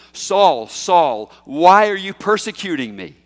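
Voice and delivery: booming call of Saul; voice from heaven. Retold or imitated. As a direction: call his name from heaven. Voice of Jesus from heaven.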